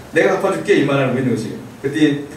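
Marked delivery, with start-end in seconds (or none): 0.1-0.8 mock-grand line through a laugh; laughing mock promise. Teacher mocks Paul promising to repay, laughing. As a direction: laugh while playing the boastful promise.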